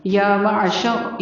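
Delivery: يا with the alif drawn out long; يا held long, slow; lengthened ya. Shown as a demonstration. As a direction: stretch the يا in يا معشر. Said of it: "یا کھڑی زبر یا، تھوڑا سا لمبا کرنا ہے".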